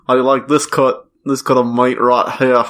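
put-on Aussie vowels; Australian accent. Admiring meat to a friend in jest, mock Australian accent. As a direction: play a joking Australian meat fancier. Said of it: "I'm Australian".

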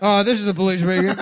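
loud puppet police announcement; through a megaphone. Pretend. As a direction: announce it through a microwave door. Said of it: "Like a puppet".

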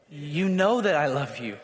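low, slow, softened confession of love; humble. Acted. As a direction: answer humbly, with all the boasting gone. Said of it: "Do you see the, the humility?".

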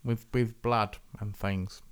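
lightly voiced film director calling action; Quentin Tarantino. Host imitating a director ordering up blood, loose impression. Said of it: "He talks like this".

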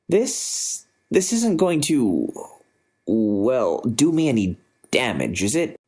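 halting, nervous questioning. Acted. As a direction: ask haltingly, afraid of harm. Nervous man under helmet.

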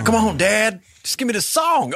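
Floyd Burney. Retold or imitated. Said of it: "he's all fast talking".

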